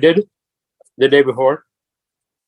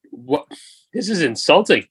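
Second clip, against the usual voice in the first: mock indignant; 5 semitones higher than usual. Retelling being called a Muslim, high mock shock. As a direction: play the insulted victim, hammed up. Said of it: "I was just like".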